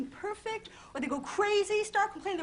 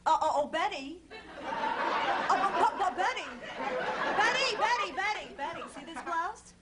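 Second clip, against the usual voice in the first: a hint of a lockjaw Bloomingdale's lady, mouth dropped; lockjaw society lady. Bloomingdale's shopper chats to Betty, lightly voiced lockjaw. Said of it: "they all talk like this".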